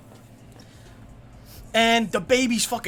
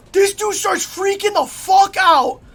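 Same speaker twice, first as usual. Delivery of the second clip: slow hyped shout; 9 semitones higher, 6 dB louder, slower than usual. Acted. Story climax shouted.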